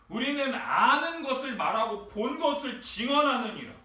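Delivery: scripture quoted as a rebuke, building in pitch and force; stern rebuke. Retold or imitated. Preacher voices Jesus rebuking Nicodemus, stern and building. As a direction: build into an acted scolding. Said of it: "말씀하시면서 니고데모를 엄청 꾸짖으세요".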